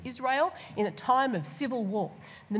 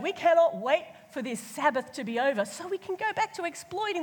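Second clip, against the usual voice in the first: mock the greedy people grumbling about the Sabbath; mocking greedy Israelites; 2 semitones higher, faster than usual. Preacher voicing greedy Israelites, sneering and mocking.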